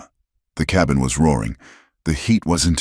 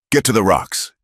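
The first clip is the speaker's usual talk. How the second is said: raised shout over a fire; 6 semitones higher than usual. Acted. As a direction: shout over the roar of the flames. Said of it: "Eli shouted over the roar".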